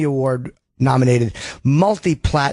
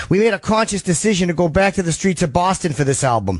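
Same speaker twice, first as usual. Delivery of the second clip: put-on a light, slightly higher Boston accent; the singer's Boston accent; 4 semitones higher than usual. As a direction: imitate the singer with a hint of Boston. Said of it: "I should do it in Sully's accent".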